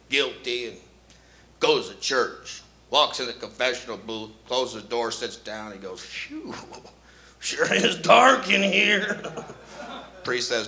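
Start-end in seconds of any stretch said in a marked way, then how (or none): 6.0-9.2 put-on slow, drawn-out kid voice; little boy voice. Boy in confession booth, slow childish voice. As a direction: innocent small child.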